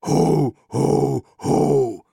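Death trying out a jolly Santa laugh; a careful, still stiff ho ho ho; practised ho ho ho. Pretend. Death rehearsing his Santa laugh for Albert. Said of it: "allmählich hast du den Dreh raus".

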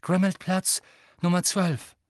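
loud, high call into the fire. Acted. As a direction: call the address clearly.

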